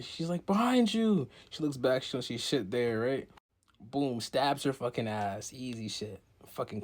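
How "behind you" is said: a quick, high, loud tip-off; high cartoon warning over the shoulder; high sharp warning. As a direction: shoot it out high and louder. Character voiced warning.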